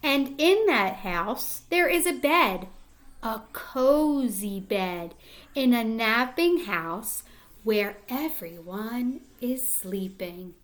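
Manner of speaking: put-on gentle storybook read-aloud to young kids; reading to children. Reading picture book aloud.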